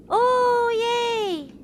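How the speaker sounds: high, loud squeal of joy; joyful cry. Real, not acted. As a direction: shriek with delight as it returns. Button returns.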